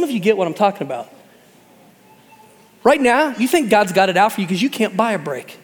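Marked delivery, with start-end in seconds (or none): none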